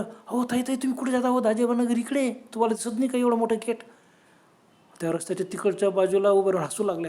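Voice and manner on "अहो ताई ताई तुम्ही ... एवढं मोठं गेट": higher-pitched, puzzled calling after someone; गोंधळून हाक. Acted. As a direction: call out to stop them, pitch raised. Raju बायांना हाक मारतो. (गोंधळलेल्या स्वरात हाक)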